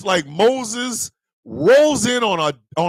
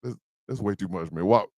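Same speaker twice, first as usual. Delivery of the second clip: low, much quieter begging; the boap bird begs the snake man to stop, low and soft; pleading bird voice; 13 semitones lower, 8 dB quieter than usual. Acted. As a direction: beg like a worried little bird. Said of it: "The boap bird was outside going".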